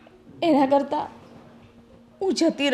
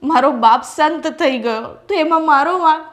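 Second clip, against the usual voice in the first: hurt outburst; 4 semitones higher, 4 dB louder than usual. Acted. Wife's tearful outburst of hurt.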